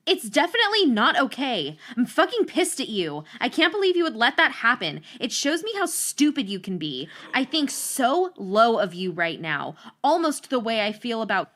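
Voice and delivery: hammed-up furious friend scolding; mock angry rant. Reading her friend's old note, mock furious rant.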